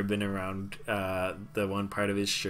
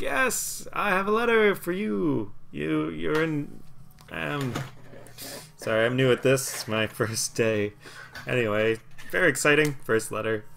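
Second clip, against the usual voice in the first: high, eager little messenger babbling; a nervous tiny courier fumbling his delivery; halfling courier voice; 5 semitones higher than usual. Acted. Halfling courier chattering to the party, high and flustered.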